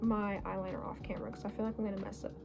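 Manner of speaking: quick whispered aside; whispering. Real, not acted. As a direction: whisper it fast, half to yourself. Aside while stepping off camera.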